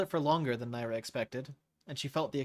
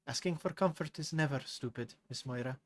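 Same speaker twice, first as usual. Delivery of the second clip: gentle reassurance. Acted. Naira reassures crying Moira, gently reassuring. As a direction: comfort the girl gently.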